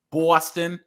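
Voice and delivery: Boston with a broad, rounded first vowel; Boston accent. Shown as a demonstration. Explaining how Bostonians talk, Boston accent. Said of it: "So, like, they say".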